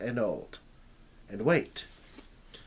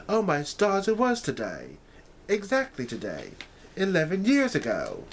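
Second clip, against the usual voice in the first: put-on higher, louder girlish voice in amazement; young Alice, astonished; 8 semitones higher, 3 dB louder than usual. A narrator's reading. Alice finding the date in her journal, astonished. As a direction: gasp at the discovery.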